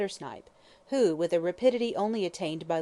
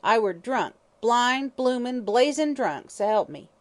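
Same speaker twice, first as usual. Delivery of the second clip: higher, louder coarse hag's voice; drunken old hag; 6 semitones higher, 6 dB louder, slower than usual. Acted.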